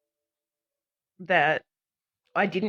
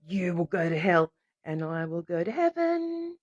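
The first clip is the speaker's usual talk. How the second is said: retold pronouncement; 3 dB quieter than usual. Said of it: "because I said".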